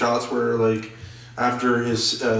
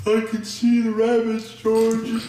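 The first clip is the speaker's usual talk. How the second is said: high, hammed-up Southern accent; Tom Holland; 9 semitones higher, slower than usual. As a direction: overact a dopey Southern character, pitched up. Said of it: "a Southern accent".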